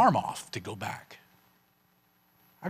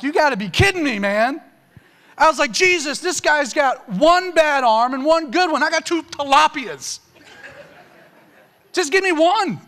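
high, strained, tearful pleading to Jesus; half-sobbing, begging through tears; retold crying plea; 11 semitones higher, 6 dB louder than usual. Reading about the withered hand, he pleads tearfully with Jesus. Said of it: "I'm bawling my eyes out".

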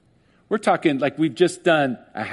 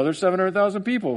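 mock skeptic; 4 semitones higher, faster than usual. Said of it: "you come into court, like".

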